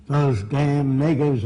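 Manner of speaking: a touch of uneducated Southern talk; imitated Southern speech. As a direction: mimic a Southern accent lightly. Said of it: "I'm, I'm imitating them".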